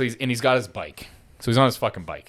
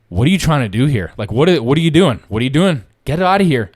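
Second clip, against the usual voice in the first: retold cop's order; 2 semitones higher, 6 dB louder than usual. Cop telling an aggressive man to back off, retold raised voice.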